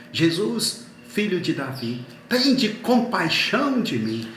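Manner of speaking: imitated beggar's cry, rising on the plea. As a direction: call out for mercy over a crowd. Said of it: "Ele começa a gritar mais alto".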